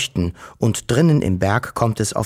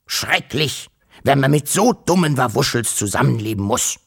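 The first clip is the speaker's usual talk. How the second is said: lightly voiced irritated old grumbler; grumpy uncle; 3 semitones higher than usual. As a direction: complain with mild exasperation. Acts the grumpy uncle interrupting. (leicht genervter, miesepetriger Onkel)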